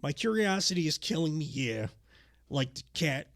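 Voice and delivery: a hint of the wrestler's cadence, punctuated with yeahs; lightly acted wrestler promo; Savage promo impression. Co-host redoing Savage's curiosity line, lightly impersonated. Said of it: "can I, I, I would like to, one thing".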